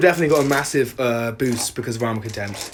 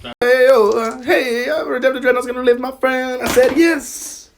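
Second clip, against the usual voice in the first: big, higher announcer boom; epic movie trailer voice; 11 semitones higher, 5 dB louder than usual. Acted. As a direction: narrate it like an epic battle. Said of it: "I'm speaking in my epic voice".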